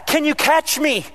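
lightly voiced kid calling to dad to be caught. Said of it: "they would yell out".

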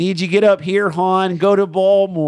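hammed-up Baltimore local; Baltimore accent. Co-host joins the Baltimore bit, in a mock Baltimore accent.

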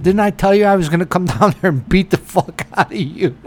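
hammed-up telling-off; retold yelling. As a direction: go off on him, half in jest. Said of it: "the way you were yelling at him".

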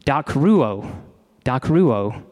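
dakruo said as TAK-roo-oh, stress on the first syllable, repeated; saying dakruo. Shown as a demonstration. Pastor introducing the Greek word for weeping, careful pronunciation. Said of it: "It's a different Greek word".

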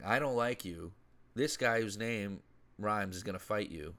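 lightly voiced John Cena bravado; John Cena promo. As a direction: sell it like a big-time promo. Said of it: "Imagine John Cena coming out and saying".

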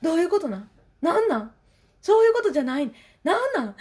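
put-on high, loud whiny child demanding answers; pestering son. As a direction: imitate the kid nagging nonstop. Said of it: "もう同じことですね".

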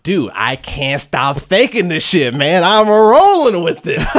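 hammed-up excitement ending in a laugh; giddy character quote. Host voicing Bromwell rolling with it, giddy.

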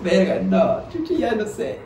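lightly voiced scared boy; panicked kid. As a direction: play the frightened twelve-year-old. Twelve-year-old panicking, retold.

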